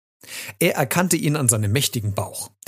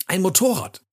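high, delighted exclamation; overjoyed child; thrilled shout; 8 semitones higher than usual. A narrator's reading. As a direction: cry out with delight, pitch jumping. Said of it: "rief Rocco begeistert".

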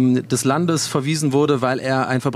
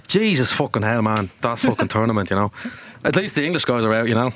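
put-on swearing Dubliner accent; Irish accent; 4 semitones lower than usual. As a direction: lay on the Irish accent with curses. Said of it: "desto mehr ist es auch Dublin". (Dubliner Akzent mit Flüchen)

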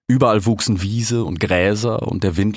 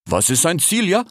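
puzzled, higher slangy voice; cheetah Ishak; 8 semitones higher than usual. A narrator's reading. Puzzled cheetah asks his siblings, raised slangy voice. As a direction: ask it like a baffled street-kid cat.

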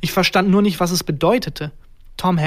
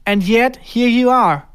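raised, higher and louder voice; calling out; 6 semitones higher, 5 dB louder, slower than usual. A narrator's reading. Tom Hanks turning round to the intruder, calling out. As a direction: exclaim it loudly, pitched up. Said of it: "rief Tom Hanks und drehte sich um".

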